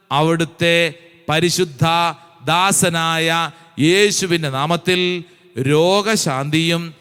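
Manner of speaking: slow, measured prayer with drawn-out phrase endings; recited prayer. Acted. Preacher reciting the apostles' prayer to the congregation, slow and intoned.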